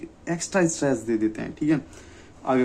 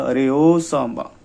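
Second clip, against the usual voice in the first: Gabbar's dialogue; 4 dB louder, slower than usual. Retold or imitated. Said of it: "जो गब्बर ने बोला था".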